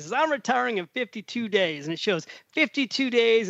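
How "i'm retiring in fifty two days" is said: put-on higher-pitched light Southern accent. Southern passenger showing off retirement countdown, light Southern accent. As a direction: imitate a Southerner proudly announcing retirement, lightly. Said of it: "He's got a Southern accent".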